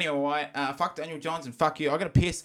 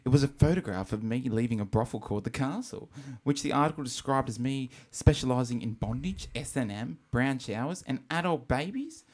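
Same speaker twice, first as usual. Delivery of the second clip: imitating a singer. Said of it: "This is exactly how he sounds".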